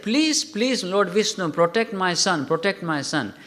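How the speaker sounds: frightened mother's urgent plea; mother pleading. Retold or imitated. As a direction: beg Vishnu to shield her son. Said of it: "he said".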